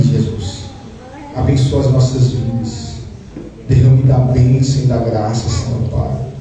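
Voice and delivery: pastor praying over the congregation, low and earnest; fervent prayer. Acted. Pastor prays for his flock, fervent and low. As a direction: lift the people up to God, steady and pleading.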